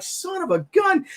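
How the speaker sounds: high shouted curse; pained curse. Retold or imitated. Injured man cursing his head wound, high pained shout. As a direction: bark it out through the pain.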